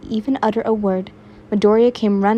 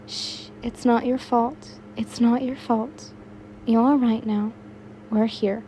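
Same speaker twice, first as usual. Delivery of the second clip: soothing; 6 dB quieter than usual. Acted. Yin comforting crying Uraraka.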